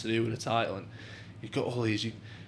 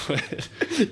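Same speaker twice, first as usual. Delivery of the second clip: high laughing "Weird."; 12 semitones higher than usual. Real, not acted. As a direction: giggle the word out, pitched up. Laughing at boots and socks.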